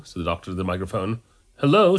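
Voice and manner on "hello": high, raised-voice reply; shouted back. A narrator's reading. Audience member answers the doctor on stage, shouted back. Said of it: "shouted back someone in the audience".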